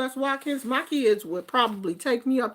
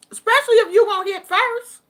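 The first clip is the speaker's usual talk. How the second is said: emphatic aside; 7 semitones higher, 6 dB louder, faster than usual. Retold or imitated. Emphatic warning.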